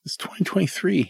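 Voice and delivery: mock-exasperated pitch to mom; exasperated retold plea. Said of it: "And I'm like".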